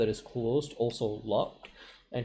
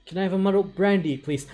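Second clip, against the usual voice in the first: high, lilting, louder voice; polite password request; 7 semitones higher, 6 dB louder than usual. Acted. Albert leaning over to give the password, politely. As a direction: ask it sweetly in a raised pitch.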